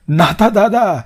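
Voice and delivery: calling out. Acted. Younger brother calling Natha awake from the yard, loud call.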